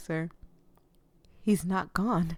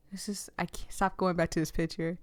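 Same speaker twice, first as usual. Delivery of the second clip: hushed, breathy whisper; 4 dB quieter than usual. Real, not acted. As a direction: whisper it, too moved to speak aloud. Moved, staring at the story picture.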